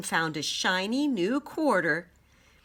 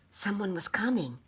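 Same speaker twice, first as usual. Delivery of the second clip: suspenseful whisper; 3 semitones higher than usual. A narrator's reading. Tense bedtime moment.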